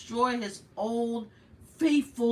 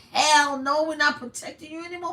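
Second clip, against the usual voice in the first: mock loud refusal; 6 semitones higher, 7 dB louder than usual. Friends abandoning him, acted quote.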